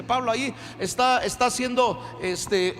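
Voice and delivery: ordinary talk, nothing marked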